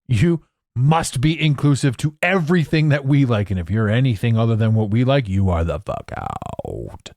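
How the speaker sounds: pompous decree, slowing and dropping at the end; hammed-up banishment; mock enforcer. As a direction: play a dictatorial scold. Plays inclusivity enforcer.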